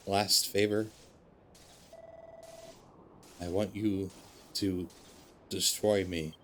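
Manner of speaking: a hint of a failing old machine, resigned; dying robot Noah.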